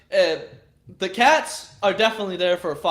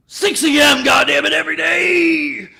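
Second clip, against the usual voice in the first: mock shout; 6 semitones higher, 6 dB louder than usual. Joking he listens to J-Dog daily.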